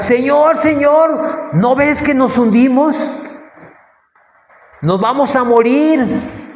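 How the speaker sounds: high, desperate pleading cry; panicked cry. Retold or imitated. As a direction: cry out as the boat sinks. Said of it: "todos empezaron a gritar". (discípulos gritando aterrados al Señor)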